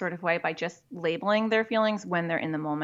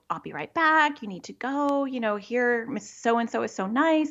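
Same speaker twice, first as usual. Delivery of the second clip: lightly voiced parent, higher pitch; reassuring parent; 4 semitones higher than usual. Parent to clinging child at preschool drop-off, higher-pitched reassurance. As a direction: lift the pitch to coax a child along.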